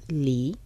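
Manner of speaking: soft, low "Li" with a rising Mandarin second tone; learner's quiet "Li" in rising tone. Shown as a demonstration. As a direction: practise "Li" softly, pitch climbing from low. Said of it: "Segundo tono".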